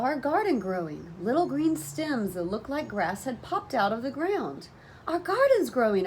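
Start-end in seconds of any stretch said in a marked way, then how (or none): 5.1-6.1 high, loud happy shout; excited yell. A narrator's reading. Child spotting the garden sprouting, yelling high and loud. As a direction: shout the news with glee. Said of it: "I yelled".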